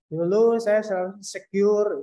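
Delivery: "Dulu saya selalu insecure" mumbled, syllables run together; garbled, swallowed "selalu insecure"; unclear articulation. Shown as a demonstration. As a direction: slur "selalu insecure" so only "cure" stands out. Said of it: "nggak jelas".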